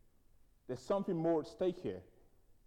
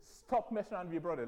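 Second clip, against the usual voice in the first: loud, raised, pointed rebuke; mum's telling-off; 4 semitones higher, 4 dB louder than usual. Retold or imitated. Mum turning on the other son, stern and raised. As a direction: turn on the child and scold firmly. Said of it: "she just turned around to me".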